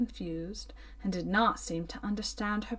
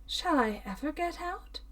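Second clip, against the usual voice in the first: pitiful question; 6 semitones higher than usual. A narrator's reading. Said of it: "in a pitiful tone".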